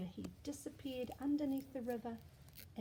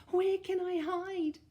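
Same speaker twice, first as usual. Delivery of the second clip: high loud panicked question; panicked child; 8 semitones higher, 10 dB louder, slower than usual. Acted. Eddie searching for a hiding place, high and panicked. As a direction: look around in panic.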